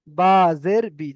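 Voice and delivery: বা জের বি at half speed, short বি; slow drilled reading. Shown as a demonstration. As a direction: model বা জের বি slowly. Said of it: "যেমন বয় হর্ষে বি হয়". (ধীরে বা জের বি)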